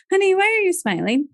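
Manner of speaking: put-on high, quick, puzzled question to a child; retold surprise, pitch jumping up; surprised question. Mother asks her smiling three-year-old after sad news, surprised.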